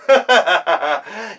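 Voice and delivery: high mocking laughter; children jeering laugh; mocking kids' laugh. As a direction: laugh at the silly wolf.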